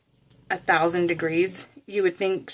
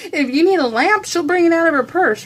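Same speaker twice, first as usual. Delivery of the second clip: higher, louder, through real laughter; laughing; 8 semitones higher, 4 dB louder than usual. Real, not acted. Daughter teasing about mom's bottomless purse, laughing. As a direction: crack up while telling it.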